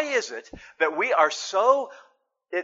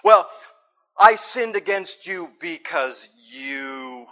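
slow, grudging half-apology; blaming confession; 4 semitones lower, slower than usual. Shown as a demonstration. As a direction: confess while pointing the finger. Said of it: "We play games with this".

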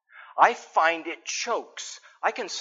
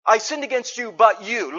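mock blaming confession; 2 semitones higher than usual. Shown as a demonstration. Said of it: "No, no, no".

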